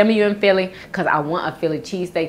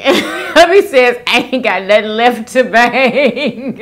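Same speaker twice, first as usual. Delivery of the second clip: laughing; 4 semitones higher, 4 dB louder than usual. Retold or imitated. Retelling hubby's joke, laughing.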